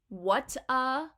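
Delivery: "what-uh" as two joined words; merged words. Shown as a demonstration. Teacher explaining water as two merged words, "what-uh". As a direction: say "what-uh" like what plus uh. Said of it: "merging those two words together".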